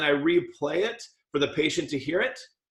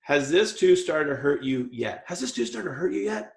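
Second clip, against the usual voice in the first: concerned. Shown as a demonstration. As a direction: ask it as a worried dentist would. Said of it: "Here's the right way. Tone of voice".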